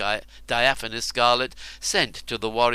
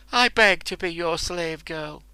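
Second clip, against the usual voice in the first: tearful plea; 6 semitones higher than usual. Acted. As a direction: plead through tears. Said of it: "filled with tears".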